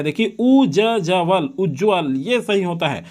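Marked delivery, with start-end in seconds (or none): 0.0-1.5 उ ज जवल split into separate pieces, slowly; teacher sounding out the spelling; slow letter-by-letter. Shown as a demonstration. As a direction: break उज्ज्वल apart for the class. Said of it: "उ double आधा जवा रहता है".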